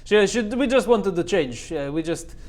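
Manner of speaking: put-on Russian accent; chatty character with a Russian accent. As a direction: slip back into a Russian accent. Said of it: "no, she's Russian. Russian".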